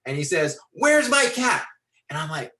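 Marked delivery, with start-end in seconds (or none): 0.7-1.6 loud, raised-pitch angry stranger; high, loud accusing shout; acted angry demand. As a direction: bellow it as the menacing big guy. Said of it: "and he's angry".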